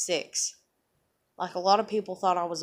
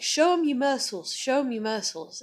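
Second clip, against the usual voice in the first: higher, eager show-off prompt; proud dad; 6 semitones higher, 5 dB louder than usual. Retold or imitated. Father urging his little daughter to flex, eager. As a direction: cheer the kid on to flex. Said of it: "he used to be, always be like".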